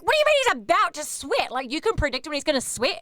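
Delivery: baffled disbelief; stunned what; incredulous. Retold or imitated. Baffled at assistant's request.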